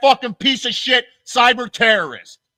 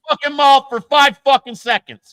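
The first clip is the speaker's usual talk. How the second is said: sharp, loud and higher; 4 semitones higher, 4 dB louder than usual. Real, not acted. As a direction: bark the demand at them. Heated argument, repeated demand.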